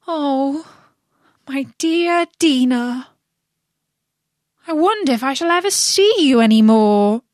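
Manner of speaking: high, rising tearful plea. A narrator's reading. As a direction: near crying, longing for her cat. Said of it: "in a melancholy tone".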